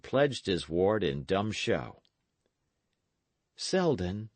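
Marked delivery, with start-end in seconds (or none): 3.6-4.3 faltering. Acted. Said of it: "Dick faltered".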